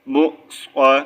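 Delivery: مو stopped with a catch before صا; jerk on hamza. Shown as a demonstration. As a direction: jolt to a halt on مو, then say صا. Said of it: "جھٹکا دینا ہے". (مو پر جھٹکا، پھر صا)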